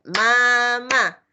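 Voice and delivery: "Mamá" said as two syllables, "ma-má"; syllables shown. Shown as a demonstration. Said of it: "¿Cuántas sílabas tiene?". ("Mamá" en dos sílabas)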